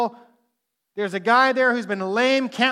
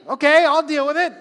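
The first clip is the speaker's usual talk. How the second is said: higher, louder resigned sigh of duty; mock reluctant; 6 semitones higher, 7 dB louder than usual. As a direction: play the one stuck with the job. Reluctant leader stepping up.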